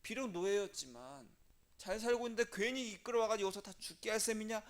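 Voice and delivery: mock accusing crowd, pressing the blame; resentful blaming. People blaming Moses and Aaron, acted resentment. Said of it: "막 원망을 합니다".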